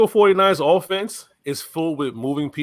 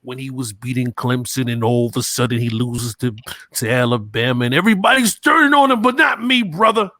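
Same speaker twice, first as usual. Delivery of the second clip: Macho Man Randy Savage. Acted. Podcaster defending his quarterback pick, shouted wrestler impersonation. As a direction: rant like a pro wrestler, exploding at the end. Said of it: "Macho Man Randy Savage impersonation".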